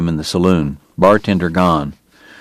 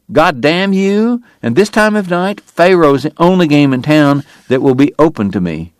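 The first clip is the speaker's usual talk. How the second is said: raging curse; 7 semitones higher than usual. Acted. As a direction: spit the words out in fury. Drunk Doc raging at Morgan.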